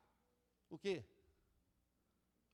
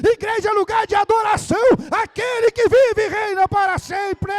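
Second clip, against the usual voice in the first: shouted, high-pitched sermon delivery; full-force preaching; 12 semitones higher, 15 dB louder than usual. Real, not acted. Preacher rebukes believers playing at church, fiery shouting. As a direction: thunder it at the congregation, relentless and high.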